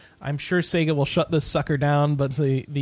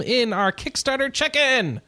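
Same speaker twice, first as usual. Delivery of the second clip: segment sign-off; 7 semitones higher, slower than usual. Shown as a demonstration. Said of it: "I need a way to close that out".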